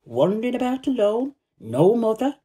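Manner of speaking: a hint of a coaxing mother; mother's voice, lifted a little; voicing Martha's mother. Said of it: "And she says".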